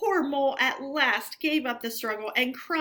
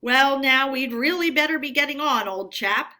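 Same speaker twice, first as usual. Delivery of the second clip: careless remark; 4 semitones higher, 6 dB louder than usual. A narrator's reading. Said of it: "remarking carelessly".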